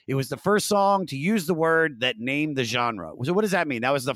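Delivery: host reading prepared notes in a lifted voice; scripted read. Acted. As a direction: present the music history to listeners. Reads show script aloud.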